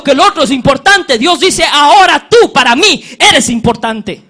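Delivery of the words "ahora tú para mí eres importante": laughing God's voice. Retold or imitated. God's voice quoted warmly.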